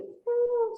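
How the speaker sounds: high-pitched run-on "uuuh"; droning nonstop noise. Shown as a demonstration. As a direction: imitate talk that never pauses. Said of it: "imagínense nosotros hablando como así, seguido".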